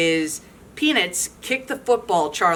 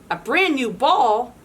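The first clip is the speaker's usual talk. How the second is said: mild excited shout; 4 semitones higher than usual. Acted. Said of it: "Charlie Brown shouts".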